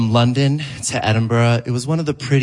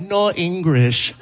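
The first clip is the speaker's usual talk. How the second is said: mock grandma's no English; 4 semitones higher, slower than usual. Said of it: "and said".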